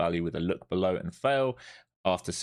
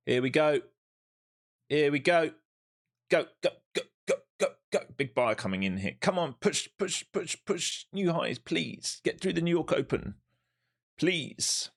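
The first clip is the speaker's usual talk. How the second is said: excited cheering; 7 semitones higher than usual. Real, not acted. Trader urging price upward.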